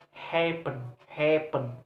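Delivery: HAPPEN with a long HAP; first-syllable stress. Shown as a demonstration. Teacher showing word stress, HAPPEN stressed on HAP. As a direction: hold HAP in HAPPEN, then a short PEN. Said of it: "first syllable".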